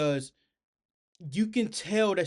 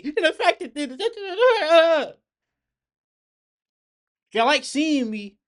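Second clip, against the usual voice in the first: laughing; 10 semitones higher, 8 dB louder, much slower than usual. Real, not acted. Laughing at his own reaction.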